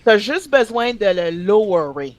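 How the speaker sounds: French sentence with "lowerer" Frenchified; French-accented English loanword. Retold or imitated. Quoting girl at work, French with Frenchified English verb. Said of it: "That's what she said".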